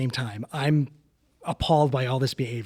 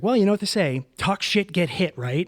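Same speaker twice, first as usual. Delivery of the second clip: quoting her line; 6 semitones higher, 4 dB louder than usual. Retold or imitated. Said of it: "this is the line she said to me".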